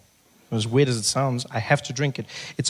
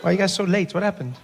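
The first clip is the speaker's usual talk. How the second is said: mock exasperated; 7 semitones higher, slower than usual. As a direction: tease the latecomers for being late. Mock annoyed host, latecomers.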